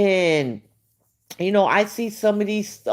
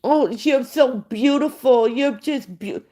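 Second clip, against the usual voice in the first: higher, sarcastic adoring gush; mock gushing fan; 5 semitones higher than usual. Mocking fans who call her beautiful, sarcastic gushing. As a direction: parody the fans' flattery.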